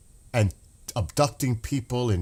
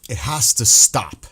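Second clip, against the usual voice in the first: louder, forceful demand; angry insistence; 6 dB louder than usual. Real, not acted. To viewers demanding the violence end, real angry insistence. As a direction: hammer it home in real anger. Furious plea after the festival videos.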